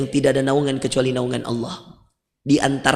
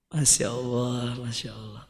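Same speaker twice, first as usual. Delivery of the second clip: much softer and slow; hushed awe; 5 semitones lower, 10 dB quieter, slower than usual. Real, not acted. Preacher marvels softly at the story. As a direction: breathe it out in wonder.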